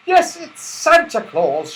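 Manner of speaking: high, loud, slow cry; excited cry. Acted. Joe recognising Santa Claus, crying out in wonder. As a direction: call out in wonder. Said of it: "cried Joe".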